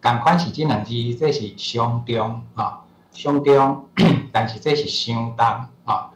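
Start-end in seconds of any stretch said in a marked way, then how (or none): 1.2-3.8 相中 said slowly and clearly as the colloquial reading; 相中 drawn out slowly, shown twice; careful demo. Shown as a demonstration. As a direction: slowly sound out 相中 for learners. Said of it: "相同甲相中".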